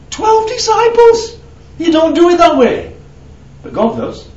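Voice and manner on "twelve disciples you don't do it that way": preacher's astonished cry; exclaimed. Real, not acted. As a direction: marvel at how few it took. Marvelling at God's odd method.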